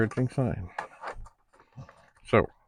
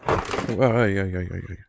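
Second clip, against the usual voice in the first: loud burst of real alarm; startled yelp; 5 dB louder, slower than usual. Real, not acted. Reacting to a mishap, then saying he's all right, startled yelp. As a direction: yelp out a quick string of cries. Mishap while plugging in cables.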